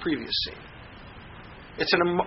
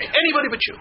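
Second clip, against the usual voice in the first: desperate refusal; 10 semitones higher, faster than usual. Retold or imitated. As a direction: push him away with your voice, pitched high. Voicing her refusal again.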